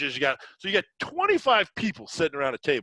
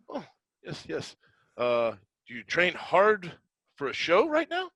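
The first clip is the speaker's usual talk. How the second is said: imitating the friend; 4 semitones higher than usual. Friend voiced in gym story.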